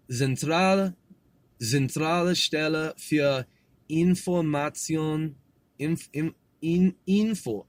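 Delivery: careful German with a slightly Russian, Slavic colour; kinda Slavic German. Shown as a demonstration. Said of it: "almost kinda like Russian".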